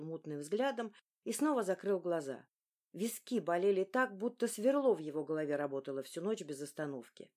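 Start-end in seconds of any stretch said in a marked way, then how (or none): none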